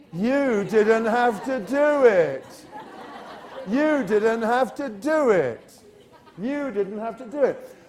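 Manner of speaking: put-on whining kid. Shown as a demonstration. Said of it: "He says".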